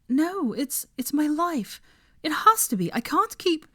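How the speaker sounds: high, breathless panic; panicking Hermione. Acted. Hermione panicking to Draco and Harry, high frantic. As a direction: spiral into frantic worry.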